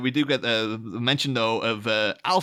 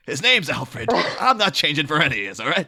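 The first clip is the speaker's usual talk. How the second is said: stern raised voice; 5 semitones higher, 5 dB louder than usual. Acted. Bruce laying down house rule.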